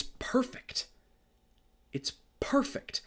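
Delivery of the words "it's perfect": whispered, almost to himself; breathy whisper. Real, not acted. Repeating his praise of the film in an awed whisper. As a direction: let it out as a reverent whisper.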